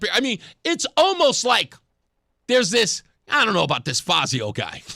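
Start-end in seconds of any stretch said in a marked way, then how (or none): 3.3-4.8 mock-skeptical voter voice, lower; doubtful voter. Host mimicking a lukewarm voter, mock doubt. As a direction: imitate an unsure voter, pitched down.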